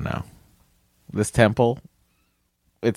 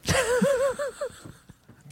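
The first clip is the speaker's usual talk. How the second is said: laughing while talking; words broken by laughter; 7 dB quieter than usual. Real, not acted. Laughing through the line.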